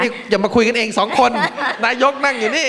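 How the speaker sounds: joking reprimand, pitch jumping up; mock scolding. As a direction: pretend to tell them off. Mock scolding, two chatting privately.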